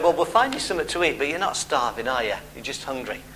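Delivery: understated fatherly correction, fading to very quiet; retold dad's reply. Dad answering his starving kids, quiet retold correction. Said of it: "And I said".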